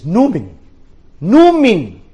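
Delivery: name shouted out, rising to a high yell at the end; called out name. Acted. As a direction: call the name after him. Answering the German loudly.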